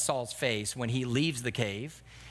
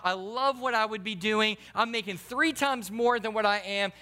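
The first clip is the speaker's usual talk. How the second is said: higher, gushing about the new job; hammed-up excited disciple; mock eager justification; 5 semitones higher than usual. Preacher imitating a disciple bragging about a job, mock eager.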